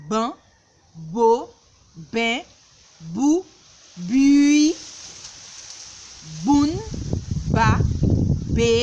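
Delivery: "ba", "bi", "bou" read one by one in a loud clear call; reading syllables. Shown as a demonstration. Teacher reading syllables aloud for children to follow. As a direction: read out each syllable crisply. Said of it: "nou pral li silab di moun".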